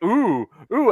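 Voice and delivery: lightly voiced lady cooing, high; a hint of an impressed security lady going ooh. Security lady feeling up the costume, coos appreciatively.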